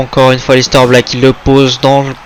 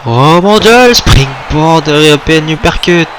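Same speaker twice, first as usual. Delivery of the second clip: excited rising call; wrestling commentator; 3 semitones higher, slower than usual. Real, not acted. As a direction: call the moves with hype. Commentator calls a sequence.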